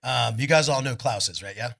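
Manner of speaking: rally the audience for Klaus; calling out to the crowd. Real, not acted.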